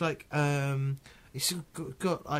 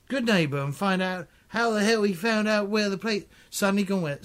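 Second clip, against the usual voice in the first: normal talking voice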